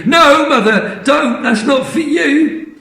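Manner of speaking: high, loud sudden No; alarmed cry. Acted. Missus Cranky stopping her mother, alarmed high cry.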